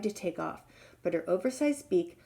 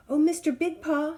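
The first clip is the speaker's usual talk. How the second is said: high, louder call; 8 semitones higher, 4 dB louder than usual. Acted. Trapped giraffe calling to the lion, high. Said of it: "he called".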